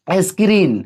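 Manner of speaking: स्क्रीन said as "eskreen" with a clear es; pronunciation demo. Shown as a demonstration. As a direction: say स्क्रीन as es-kreen. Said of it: "यहाँ पे हमने बोला".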